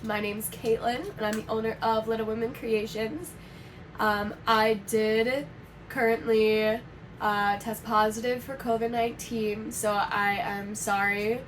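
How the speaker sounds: raspy, sick-sounding voice. Real, not acted. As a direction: talk through a raspy throat after illness. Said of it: "if my voice is raspy today".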